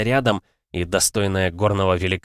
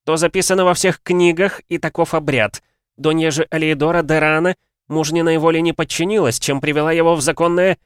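haughty justification; 9 semitones higher, 5 dB louder than usual. A narrator's reading. Guest justifies beating haughtily.

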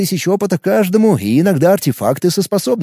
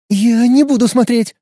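put-on high, louder girl recoiling; squeamish refusal; 9 semitones higher, 3 dB louder than usual. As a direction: back away in disgust. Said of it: "отскочила от Лёхи Катя".

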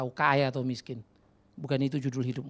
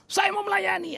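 much higher, sing-song voice of an eager volunteer; mock pious claim; 5 dB louder than usual. Pastor mimicking a churchgoer who only talks of serving, high and mocking. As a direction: parody a hollow promise in a lifted voice.

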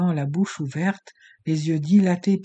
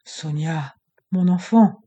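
terrified stammer; 7 dB louder, slower than usual. Acted. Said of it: "balbutia Argoulian terrifié".

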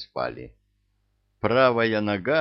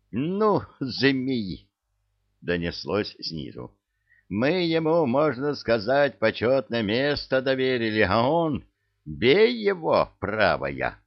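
angry shouting; 4 semitones higher than usual. Acted. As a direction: yell furiously mid-fight. Heads brawl, shouted from below.

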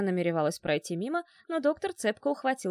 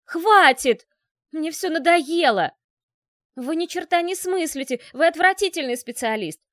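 much louder and higher, screaming in rage; furious yelling; 6 semitones higher, 7 dB louder than usual. Acted. Irina screams at the doctor and fires him, furious yell. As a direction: stamp your foot and scream him out. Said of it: "заорала".

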